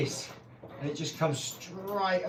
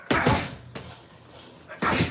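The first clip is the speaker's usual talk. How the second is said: mock punch grunts. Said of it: "he'd go".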